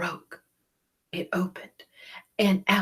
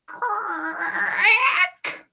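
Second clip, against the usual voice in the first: high, louder crack; cracking sound; 13 semitones higher, 5 dB louder than usual. A narrator's reading. Narrator voicing the egg breaking. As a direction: burst it out.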